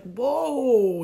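loud, high acted shock; startled whoa. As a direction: blurt it out, taken aback. Startled by cousin's smack.

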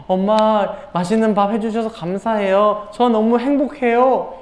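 lightly voiced thankful kid; a touch of happy gratitude, slowing at the end; grateful child. Child thanking mom for the meal, mildly acted gratitude. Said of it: "감사한 그런 표정이죠".

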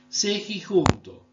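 Sejijunto said slowly, every syllable spelled out; slow careful demo. Shown as a demonstration. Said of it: "Se dice sejunto". (Sejijunto dicho despacio, sílaba por sílaba)

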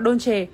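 "Dolce" as in Italian, ending in "cheh"; Italian pronunciation. Shown as a demonstration. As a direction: pronounce "Dolce" in two syllables, DOL-cheh. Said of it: "Tiếng Ý thì chúng ta hay đọc là". (đọc "Dolce" theo tiếng Ý, thành "đôn-chê")

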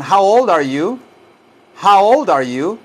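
put-on "How old are you" lifted, rising on YOU; model question. Shown as a demonstration. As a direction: ask it clearly for learners to copy. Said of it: "Entonces repitan así".

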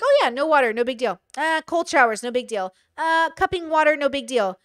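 imitating an easygoing, unbothered self; mock nonchalance. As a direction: shrug each one off in a singsong. Retells shrugging off hardship at first.

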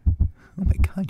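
slow, stunned whisper; can't believe you made it; awed whisper. Acted. Arriving, disbelieving relief.

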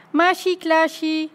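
high-pitched eager shout; excited calling out. A narrator's reading. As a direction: call out in a high, lively voice. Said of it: "riep Dummy". (opgewonden geroep)

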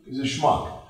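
mock the realtor as a schmuck; mocking scorn. Real, not acted. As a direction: sneer at him as a nerd.

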